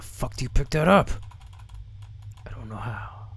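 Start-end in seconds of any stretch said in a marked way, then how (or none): 2.5-3.3 soft confused whisper. Real, not acted. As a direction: whisper it to yourself. Whispering while playing.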